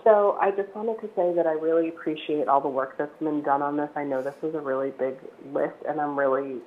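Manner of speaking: hoarse, croaky voice; speaking through a frog in the throat. Real, not acted. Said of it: "I apologize for my odd voice".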